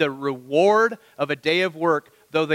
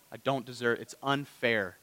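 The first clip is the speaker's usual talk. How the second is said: mock whine; 5 semitones lower, 8 dB quieter than usual. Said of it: "Others, it's just another thing that I don't deserve".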